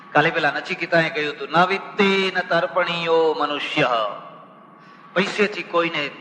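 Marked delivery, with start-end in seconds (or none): 1.5-3.9 slow, measured Sanskrit line; slow chanted quotation; scripture recitation. Acted. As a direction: intone the verse slowly.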